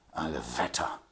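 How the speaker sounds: sudden jolted oath in another voice; startled exclamation. A narrator's reading. Grinley startled hearing Old Shatterhand is coming. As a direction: jump up at the news. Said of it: "fuhr Grinley auf".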